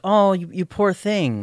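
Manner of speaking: drawn-out, condescending sympathy, retold; mock pity. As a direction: lightly imitate a pitying family friend. Mom's friend's pity quoted.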